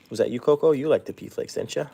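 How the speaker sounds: fond, lilting pet-owner voice; pet talk. Real, not acted. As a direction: talk sweetly up high to a little animal. Talking fondly to the pet.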